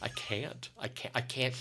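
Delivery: soft, small repeated I can't; meek refusal. Retold or imitated. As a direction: shrink away from the call. Refusing manager, whisper on 121.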